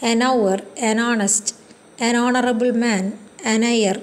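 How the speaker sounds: An hour read very slowly, h left silent; slow example reading. Shown as a demonstration. Teacher reads examples to students, very slowly. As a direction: slowly spell out each example, vowel first. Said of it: "എച്ച് silent".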